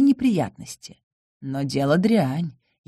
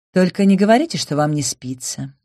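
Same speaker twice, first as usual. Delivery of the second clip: displeased grumble. Acted. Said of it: "Недовольное ворчание".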